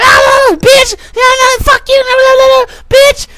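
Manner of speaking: falsetto babble with shouted swearwords; very high mock female clamor; imitating yelling women. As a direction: squawk like a flock of chicks. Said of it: "when a bunch of chicks are yelling".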